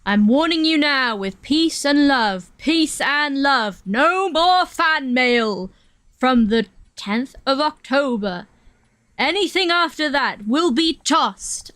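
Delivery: slow, lightly voiced imitation of a famous drummer; slow, mild drummer imitation; drummer impression. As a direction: drawl it out slowly like the drummer's old video. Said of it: "He's very funny".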